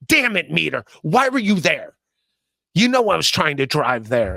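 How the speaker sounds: lightly voiced whiny complaint at the meter; mock-indignant rant, barely changed voice; a hint of a put-upon guy yelling at a meter; Aaron impression. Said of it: "That's my Aaron impression".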